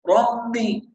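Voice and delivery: "ربي" with part of the b coming through the nose; nasalized ba. Shown as a demonstration. Teacher repeats the common mistake, ربي with a nasal b. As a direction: say "ربي" like "rambi". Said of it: "بينطق من الخيشوم".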